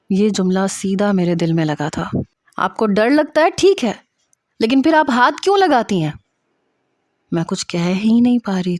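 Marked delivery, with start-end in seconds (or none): 2.6-6.1 high, exasperated reproach; angry scolding. A narrator's reading. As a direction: demand an explanation with rising pitch. Senior doctor scolding the junior. (جھنجھلاہٹ بھری ڈانٹ)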